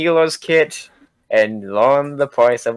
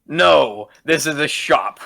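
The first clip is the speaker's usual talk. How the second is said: shopkeeper voice; 4 semitones higher than usual. Acted.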